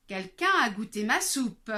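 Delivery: moderately loud bear voice; a middling-sized bear, annoyed; lightly voiced mama bear; middle bear voice. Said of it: "dit de sa moyenne voix".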